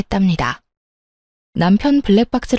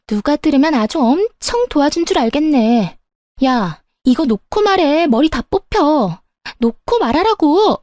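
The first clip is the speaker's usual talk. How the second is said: higher-pitched, protesting other woman; indignant mistress; 5 semitones higher than usual. Acted. Mistress to wife pulling her hair, indignant. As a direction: protest in a raised pitch, stretching the demands.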